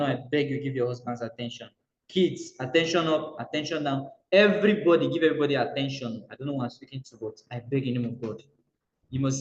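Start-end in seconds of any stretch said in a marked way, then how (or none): 4.3-5.1 loud call to everyone; preacher calling on the whole congregation, loud. Acted. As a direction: summon the whole room.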